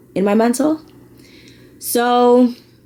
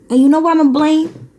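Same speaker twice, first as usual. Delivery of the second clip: teasing setup; 11 semitones higher, 3 dB louder, faster than usual. Real, not acted.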